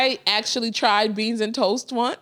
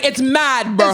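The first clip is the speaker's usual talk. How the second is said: a light mock London accent on the slang; tossing off British slang in a hint of a London accent; 4 dB louder than usual. Mocking British slang to the co-host, in a light London accent. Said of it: "I'm about to use their slang".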